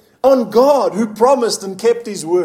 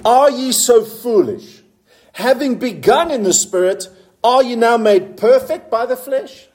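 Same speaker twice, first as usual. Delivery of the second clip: emphatic, measured Bible reading; scripture reading. Acted. Preacher reading verse three to the congregation, emphatic and measured. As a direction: read it as a pointed question.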